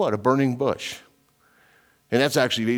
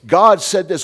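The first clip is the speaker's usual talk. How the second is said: mocking quote; 6 semitones higher, 8 dB louder, slower than usual. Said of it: "they want to tell us".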